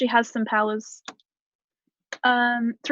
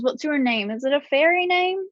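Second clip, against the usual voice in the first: put-on a slightly higher childlike voice, sniffly and pleading; sick little girl voice; 4 semitones higher than usual. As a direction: play a sick kid peppering him with questions. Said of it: "And then she says".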